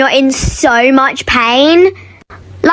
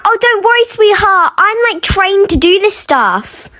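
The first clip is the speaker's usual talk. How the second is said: high, sugary reassurance; mock-sweet school nurse calming a pupil; sweet condescending nurse; 5 semitones higher than usual. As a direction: coo it like a patronising nurse. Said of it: "And then they say".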